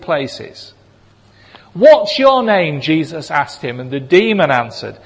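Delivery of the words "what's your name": commanding question. A narrator's reading. Jesus demanding the demon's name.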